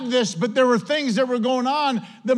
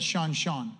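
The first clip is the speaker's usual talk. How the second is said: soft mocking mom; 6 semitones lower, 6 dB quieter than usual. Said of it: "there wasn't any soft tone".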